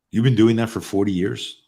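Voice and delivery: mildly astonished, rising at the end; retold disbelief. Uber driver questioning a passenger's forty-year career, retold disbelief.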